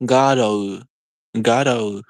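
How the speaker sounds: Garou as "GAH-doh", tapped r; Japanese pronunciation. Shown as a demonstration. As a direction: say Garou with an open "ah" and a flicked r. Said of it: "that should be like".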